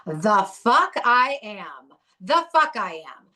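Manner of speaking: slow, loud defiant repeat; throwing it back at her in rage; retold angry retort. Defiant retort to the rehab counselor. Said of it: "I'm still this rageful".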